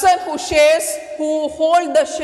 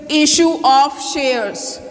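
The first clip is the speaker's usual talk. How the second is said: slow emphasis; slower than usual. Shown as a demonstration. Teacher drilling a term to students, slow and deliberate. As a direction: issue of shares said slowly, leaning on issue. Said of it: "we have studied this".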